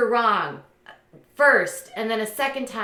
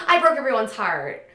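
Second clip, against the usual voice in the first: imitating a weepy ex, half laughing; hammed-up tearful regret; mock tearful confession; 4 dB louder than usual. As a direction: whimper it as a parody. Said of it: "making comments like".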